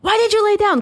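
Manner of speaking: high-pitched mock scolding question; imitated coach. Guest quoting coach after her injury, high imitated coach. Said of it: "my coach was like".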